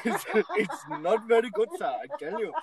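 a badly faked Indian accent, laughing; lightly hammed-up Indian accent; mock Indian accent. Host laughs while faking an Indian accent at his friend. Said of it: "You sound, you sound Indian".

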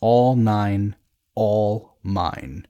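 restrained narrated roar, opening loud. A narrator's reading. Pilot to the gathered deck crew, roaring. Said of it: "I roar to the gathered deck crew".

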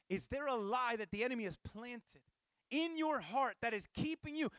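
ordinary delivery

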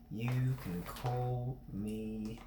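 put-on slow, drawn-out Australian accent. Game master naming a stranger, in an Australian accent. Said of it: "That's Australian".

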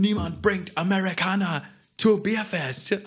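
high, American-sounding German; American German accent. Retold or imitated. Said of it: "so American, but German".

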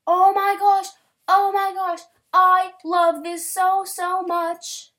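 high loud delighted gushing; excited squeal. Real, not acted. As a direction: squeal over the art. Gushing over art.

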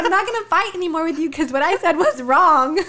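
laughing while quoting herself; laughing retelling. Retold or imitated. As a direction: laugh through the words. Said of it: "I was like".

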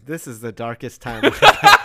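dramatic wail through laughter; laughing mock despair. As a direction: ham up the doom while laughing.

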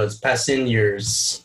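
"passengers" said slowly with a soft G; soft G demonstration. Shown as a demonstration. Co-host correcting the impression, "passengers" with soft G. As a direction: sound out "passengers" slowly, softening the G. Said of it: "I think it's a soft G".

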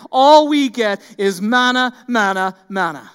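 exasperated, slowing mock-whine that dies away; mock-bored complaint. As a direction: sigh it out like a fed-up crowd. Mocking the grumblers' monotony.

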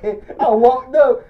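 loud, high, laughing delivery. Real, not acted. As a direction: crack up while telling it. Cracking up while telling story.

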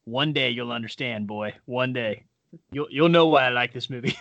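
a hint of a knowing father, ending in a chuckle; a wise dad teasing his boy; dad promising his son he'll understand one day. Dad voiced answering his son.

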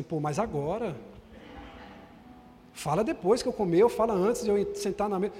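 marido contrariado. Retold or imitated. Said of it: "Aí você fica assim".

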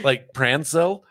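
slow, high "PRAN-sil" for Prancil; attempted imitation. Host tries to match the woman's word, slow high Prancil as "PRAN-sil". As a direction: stretch Prancil with a broad A, questioning. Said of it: "I'm trying to".

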